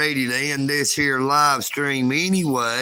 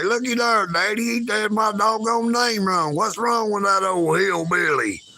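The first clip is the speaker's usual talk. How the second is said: put-on much higher small-girl complaint; imitating an upset little girl; 6 semitones higher than usual. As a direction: play a little girl telling her daddy off. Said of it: "get mad at old Eagle Nick and say".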